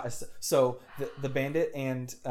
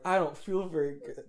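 higher, put-on villain voice; Count Odious; 5 semitones higher, 3 dB louder than usual. Villain speaking after being beaten, lightly voiced queasiness. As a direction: lightly voice a villain feeling poorly. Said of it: "Count Odious is like".

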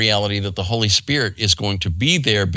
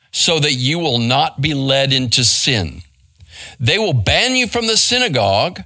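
measured read-aloud scripture, starting pitched up. A narrator's reading. Preacher reads Jesus' words from John sixteen, scripture reading. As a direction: read the passage out formally to the congregation.

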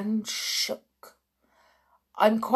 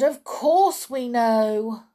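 higher, loud eager assurance; cringing witches; 4 semitones higher, 6 dB louder than usual. A narrator's reading. Witches placating the Grand High Witch, high eager. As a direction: hurry to agree. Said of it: "they all answered".

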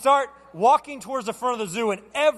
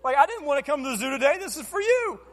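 exasperated dad; 6 semitones higher than usual. Retold or imitated. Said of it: "I'm like".

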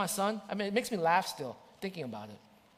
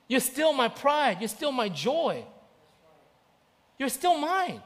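reassuring father; 3 semitones higher than usual. Retold or imitated. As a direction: hold him close with your words.

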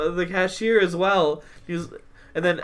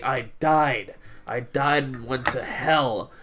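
lightly voiced preacher testimony, lower; preacher impression; 4 semitones lower, 3 dB quieter, slower than usual. Retelling the preacher's death and conversion, preacher impression. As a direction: imitate a slow, solemn testimony. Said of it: "he was like".

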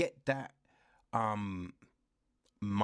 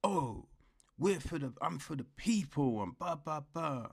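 mock pompous hero; 3 semitones higher than usual. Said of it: "he's all like".

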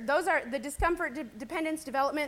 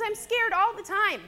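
crying; 7 semitones higher, 4 dB louder than usual. Real, not acted. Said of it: "see, I'm crying".

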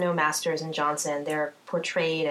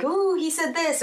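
high, slow scandalised ooh; embarrassed gasp; 10 semitones higher than usual. Retold or imitated. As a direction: gasp it out like you're blushing. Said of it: "uncomfortable or blushing or like".

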